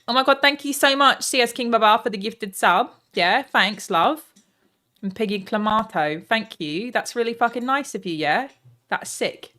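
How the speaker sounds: put-on loud chav accent for thank-yous; cheeky British chav accent. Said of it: "thank every sub in, in the chat accent".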